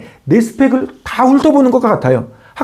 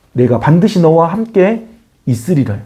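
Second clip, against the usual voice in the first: slow, lightly lowered voice of God; God's promise; 4 semitones lower than usual. Acted. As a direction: promise it steadily, word by word. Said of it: "하나님의 답". (천천히, 약간 낮게 약속하는 하나님의 목소리)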